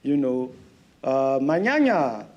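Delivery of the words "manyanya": put-on Russian accent. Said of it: "do the Katya thing where I'm just like".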